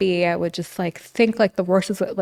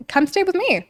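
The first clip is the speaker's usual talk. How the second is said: imagined invitation; 10 semitones higher than usual. Retold or imitated.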